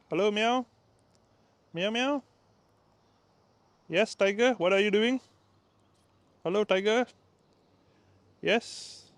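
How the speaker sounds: cooing at a street cat; talking to a cat. Real, not acted. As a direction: coax the stray cat across the road.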